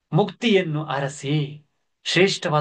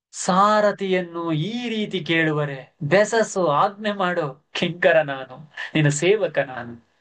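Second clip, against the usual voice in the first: put-on slow, higher humble old servant; old servant's plea; 3 semitones higher than usual. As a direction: plead humbly as an old charioteer. Old charioteer Chenna speaking. (ದೀನ ಮುದಿ ಸೇವಕನ ದನಿ)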